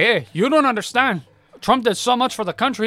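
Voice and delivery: high, loud protest; defensive old man. Retold or imitated. Old man defends Trump, loud mock protest. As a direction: insist loudly. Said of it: "the guy's like".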